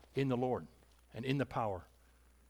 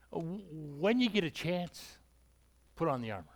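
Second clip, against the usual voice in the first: casual suggestion. Retold or imitated. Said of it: "He doesn't say".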